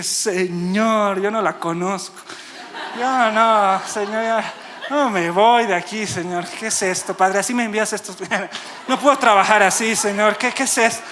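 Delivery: exasperated praying, half laughing; mock dismayed plea. Preacher retelling his plea to the Lord, comically dismayed. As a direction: plead in comic disbelief at being sent this.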